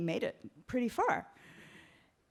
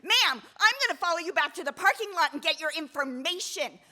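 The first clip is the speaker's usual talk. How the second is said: higher, whiny threatening voice; imitating a shrill hiker; mock screaming; 5 semitones higher than usual. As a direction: threaten to follow her, lightly voiced. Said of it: "she starts screaming at me".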